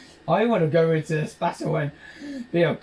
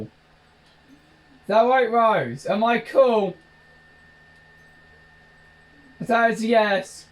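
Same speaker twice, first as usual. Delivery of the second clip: high, loud, drawn-out mock question; 6 semitones higher, 5 dB louder, much slower than usual. Teasing Rose about being cool, high and stretched.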